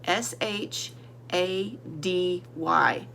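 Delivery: A D Y spelled slowly, one letter at a time; spelling slowly. Shown as a demonstration. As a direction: spell A D Y out for the class. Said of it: "Let's spell the word".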